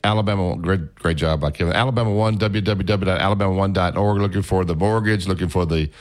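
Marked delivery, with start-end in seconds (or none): 1.7-5.9 upbeat radio sponsor read; radio host's sponsor plug for a credit union; live ad read. Acted. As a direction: sell it like a friendly host plug. Host reads sponsor ad.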